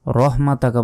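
everyday Bengali h in রহমাতাকা; wrong h demonstration. Shown as a demonstration. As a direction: say রহমাতাকা quickly as "rohmataka", light h. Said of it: "বলা যাবে না".

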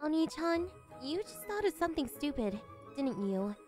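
soft, knowing accusation; quiet suspicion. Acted. Sister catching sibling's silly idea, quietly suspicious. Sister suspects a stupid thought.

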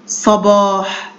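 صباح slowly, with short "sa" then long "baah"; slow model pronunciation. Shown as a demonstration. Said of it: "ألفظها ص".

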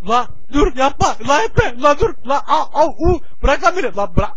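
begging him to let go; panicked pleading. Acted. Pleading with attacker to stop.

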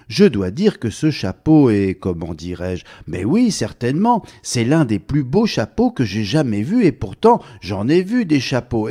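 a chatterbox admiring his hat; lightly voiced chatterbox. Mr Bavard praising his new hat, eager chatter.

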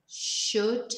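"should" said clearly and slowly as a model; model pronunciation. Shown as a demonstration. Teacher to Spanish learners, modelling "should" clearly. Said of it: "this is how they're pronounced".

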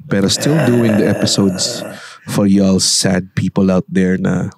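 talking while sick, muffled; muffled voice with a cold. Real, not acted. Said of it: "muffled voice".

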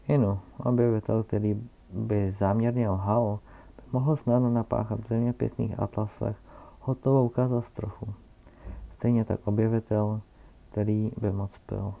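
put-on loud pompous old scholar lecturing; old geographer. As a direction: hold forth like a self-important academic. Geographer explaining. (zeměpisec hlasitě a povýšeně vykládá o své práci)

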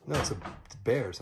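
ordinary talk, nothing marked

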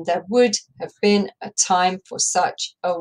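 even da-DUM beat; iambic read. Shown as a demonstration. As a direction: read it as a steady iambic line. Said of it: "straight into the iambic line".

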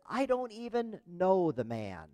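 insistent denial. Retold or imitated. Peter denying to a servant girl that he knows Jesus, insistent.

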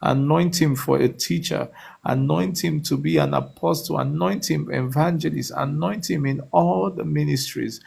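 rising, insistent prayer chant; fervent prayer. Acted. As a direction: pray over him with building fervor. Fervent prayer over a caller.

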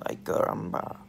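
mock yelp at the doctor; ay caramba. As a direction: exclaim it, a bit hammed-up. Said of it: "That's what I said".

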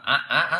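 "Á" as a Vietnamese rising-tone vowel; repeated "Á" with Vietnamese tone. Shown as a demonstration. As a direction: demonstrate the comical Vietnamese-sounding "Á". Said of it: "Á Việt Nam ấy thì nó buồn cười lắm".

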